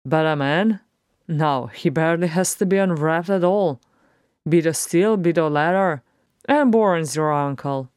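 lightly voiced, lively dwarf; irreverent dwarf. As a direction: hold forth as a cheeky dwarf, punching key words. Beaufort jokes about eating men.

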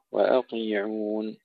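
وأطيعون with thin hamza then thick T; light hamza heavy ta. Shown as a demonstration. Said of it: "ترقيق الهمزة أيضًا قبل تفخيم الطاء". (ترقيق الهمزة وتفخيم الطاء)

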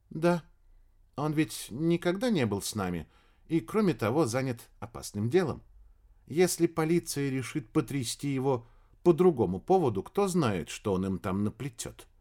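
woman's voice. Acted. Female character answers Michael.

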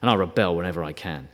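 low, sulky grumble of a reluctant believer; mock grudging mutter; begrudging. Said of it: "It's not a begrudging thing".

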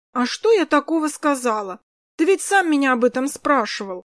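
put-on a little girl wronged and whining; upset little girl. Kris protesting to her brother, upset child voice. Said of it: "расстроилась малышка".

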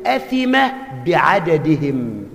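drawn-out grave ruling; a hint of the old sheikh's gravity; sheikh's slow verdict. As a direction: pronounce the sin slowly. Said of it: "قال له".

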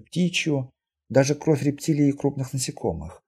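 calm girl explaining her gift, lightly voiced; lightly voiced mutant girl, composed. (слегка сыгранная спокойная девушка-мутантка)

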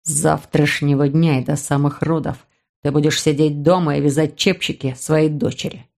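low commanding voice; ordering man. Acted. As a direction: lay down the law, low. Brother ordering sister.

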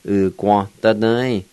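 "ga" said with a Q sound, as "gwon"; blended "U, ga, da, da, e" with gw in "ga"; Q sound variant. Shown as a demonstration. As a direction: add a w glide to "ga": gwon. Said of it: "say with a Q sound".

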